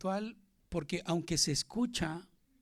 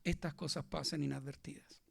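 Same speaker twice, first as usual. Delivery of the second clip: dramatic whisper, much softer; 6 dB quieter than usual. Real, not acted. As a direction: lean in and whisper the warning. Dramatic drop in sermon. (susurro dramático de predicador)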